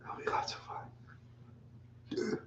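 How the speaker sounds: slow, drawn-out whisper; slow, secretive whisper of That'll be lots of fun. Shown as a demonstration. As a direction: whisper it slowly to yourself. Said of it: "whispered repeat of line".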